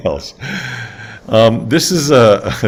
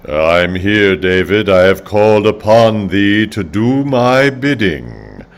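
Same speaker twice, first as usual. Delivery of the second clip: slow, lordly divine voice; God voice; 3 semitones lower, slower than usual. Pretend. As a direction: speak as an almighty god. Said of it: "That God?".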